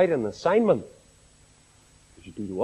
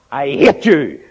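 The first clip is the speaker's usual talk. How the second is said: a mild mock yell, a touch louder; retold angry shout; 2 semitones lower, 5 dB louder, slower than usual. Boy shouting at his grandfather, mild mock yell. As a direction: fling it back at grandfather in a half-hearted yell. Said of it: "he shouted at his grandfather".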